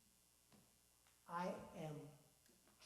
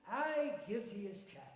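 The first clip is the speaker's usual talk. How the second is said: a hint of a hearty Irish fellow, louder; cheery Irish-tinged man; lightly Irish old man; 5 dB louder than usual. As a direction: marvel at the lad's luck. Voices Donald.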